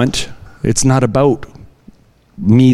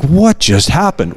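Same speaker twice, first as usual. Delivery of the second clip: dazed disbelief; 3 semitones higher than usual. Retold or imitated. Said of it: "walks away with this kinda like".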